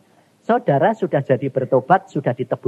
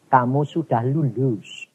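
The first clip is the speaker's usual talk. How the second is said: voice of God; 3 semitones lower, slower than usual. Retold or imitated. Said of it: "Tuhan ngomong gini".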